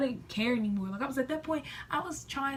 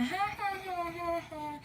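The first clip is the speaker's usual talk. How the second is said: bursts of higher laughter; laughing; 7 semitones higher, 3 dB quieter, slower than usual. Real, not acted. Vlogger laughing about acting nice to her cheating boyfriend. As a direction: laugh at her own scheme.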